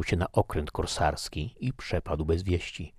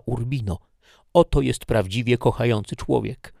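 higher, louder capricious complaint; Laura reproachful; 5 semitones higher, 4 dB louder than usual. Acted. Laura wheedles Ricardi for her own estate, petulantly. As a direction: sulk and press him for the barony.

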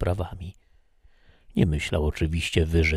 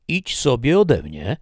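sharp order; 7 semitones higher, 6 dB louder than usual. Acted. Hero sends Sylwia away.

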